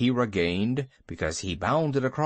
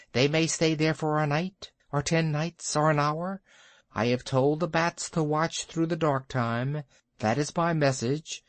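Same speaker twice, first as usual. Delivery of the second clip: a hint of a bird voice, slightly raised; the kite delivers his message a little higher; lightly voiced kite; 3 semitones higher than usual. Ron the kite reports to the bears, lightly raised bird voice.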